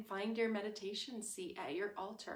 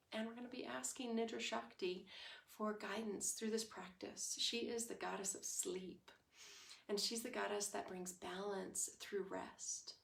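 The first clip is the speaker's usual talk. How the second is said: guided meditation; 6 dB quieter than usual. Real, not acted. Leads into stillness, invoking goddess of sleep.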